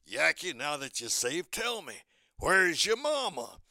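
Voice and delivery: lightly voiced cartoon bulldog; rising, drawn-out question to the little duck; Chopper. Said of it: "Chopper says".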